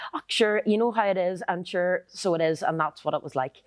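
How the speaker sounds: Northern Irish filler in a light sing-song; lilting Irish rhythm. Shown as a demonstration. Showing how Northern Irish people say nothing, lilting Irish rhythm. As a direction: roll off empty Northern Irish phrases rhythmically. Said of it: "it had a nice rhythm to it".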